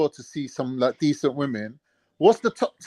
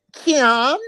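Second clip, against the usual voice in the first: higher, puzzled questioning "Kian?"; mock Jamaican query; 8 semitones higher than usual. Imitating the Jamaican man mishearing his name. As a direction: ask it like a confused Jamaican man. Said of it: "He went".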